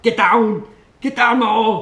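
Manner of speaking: high, loud workout command; gym partner's shout. Retold or imitated. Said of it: "He was like".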